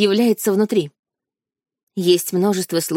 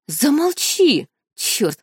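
choking with rage; 6 semitones higher, much slower than usual. Acted. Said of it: "задыхался он от нахлынувшей злости".

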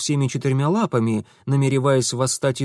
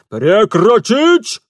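higher, loud, slow military command; barking officer; 9 semitones higher, 10 dB louder, much slower than usual. A narrator's reading. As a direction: bark the order to stop. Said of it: "рявкнул войсковой старшина". (рявкает старшина)

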